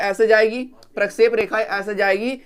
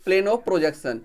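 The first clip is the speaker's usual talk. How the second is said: very slow, word-by-word term; teacher slowly dictating the English term; slow enunciation; much slower than usual. Shown as a demonstration. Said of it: "यानी कि प्रोजेक्शन".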